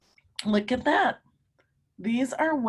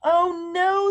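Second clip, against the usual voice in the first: mild alarm; 8 semitones higher, 6 dB louder than usual. A narrator's reading. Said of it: "says Megan".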